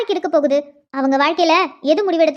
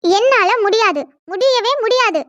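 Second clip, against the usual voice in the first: firm, raised-pitch refusal; defiant refusal; 3 semitones higher, slower than usual. Acted. Young woman refusing the elders' decision, defiant. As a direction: refuse outright, pushing higher on the second line.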